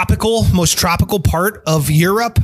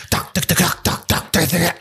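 imitating flamenco claps; 4 dB quieter than usual. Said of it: "these ladies are like".

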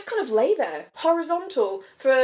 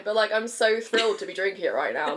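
laughing. Real, not acted. Laughing while talking.

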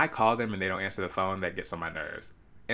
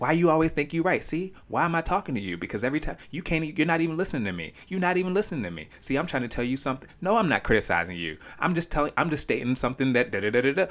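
higher, rapid ranting man; mock angry boyfriend; 6 semitones higher than usual. Overheard man ranting at his girlfriend, fast high mock rant. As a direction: rattle it off like a guy going off on his girl. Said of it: "he was just going off".

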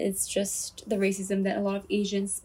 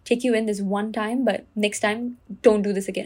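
rude. Retold or imitated. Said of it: "And very, very rudely".

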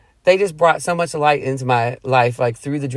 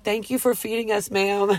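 higher, softer imitation of a grateful young man; soft, sweetly polite quote; sweet retold thanks; 6 semitones higher, 4 dB quieter than usual. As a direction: gently pitch up a polite, sweet thank-you. Retells college kid's sweet thanks.

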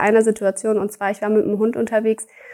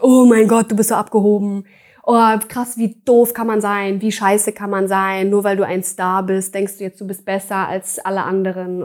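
upset rant; 3 dB louder than usual. Retold or imitated. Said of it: "hat der sich tierisch aufgeregt".

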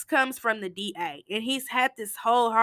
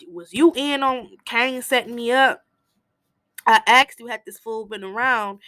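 heated argument; 3 semitones higher, 6 dB louder than usual. Retold or imitated. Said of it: "they get into a heated, heated argument".

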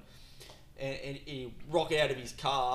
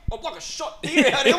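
laughing mock panic; 12 semitones higher, 12 dB louder than usual. Caught on the animal camera, high laughing mock panic. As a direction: squeal it through laughter. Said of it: "You're like".

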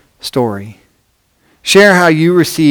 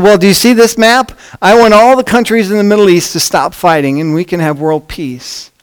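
hopeful woman voice; 5 semitones higher than usual. Acted.

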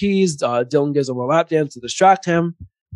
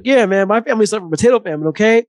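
mock Bernie Mac; 7 semitones higher, 5 dB louder, faster than usual. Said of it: "He's like".

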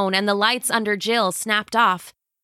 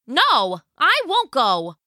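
higher, pleading mother voice; 6 semitones higher, slower than usual. Acted. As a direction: beg her gently to stop. Mother refuses to leave.

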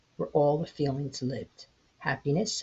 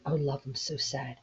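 softer, reluctant, sad reply; unwilling; 3 dB quieter than usual. Acted. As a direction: turn him down with a sigh in the voice. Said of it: "Sadness unwillingly responded".

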